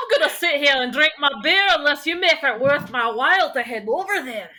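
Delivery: stubborn put-on drinker's voice; bargaining tavern-regular character; surly Crouton. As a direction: dig in and haggle, half amused.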